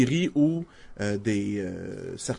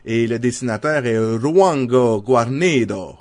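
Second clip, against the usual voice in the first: Spanish accent; 5 dB louder, slower than usual. Shown as a demonstration. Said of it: "pardonnez-moi mon accent espagnol".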